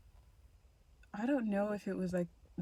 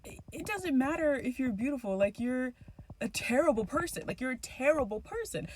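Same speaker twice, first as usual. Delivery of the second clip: heated retort; 5 semitones higher than usual. Retold or imitated. Arguing with sister.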